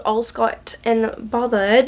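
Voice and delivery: accidental slip into an English accent. Real, not acted. Book vlogger reading out a title, slipping into an English accent. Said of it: "switched to an English accent".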